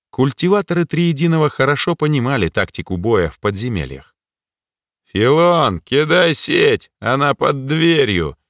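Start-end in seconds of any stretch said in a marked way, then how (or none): 5.1-8.4 shout. Acted. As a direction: call out into the dark, slow and urgent. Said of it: "крикнул кто-то в темноту".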